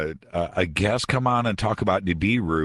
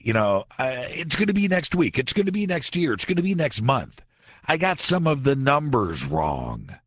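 high-pitched mock excuses; backtracking doomsday prophet; 6 semitones higher than usual. Radio host mimicking a prophecy maker moving his date, mock backtracking. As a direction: scramble through revised dates, pitched up. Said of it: "says something like this".

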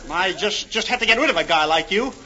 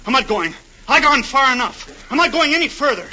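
defiant; 5 semitones higher than usual. Acted. Refuses to go further, defiant.

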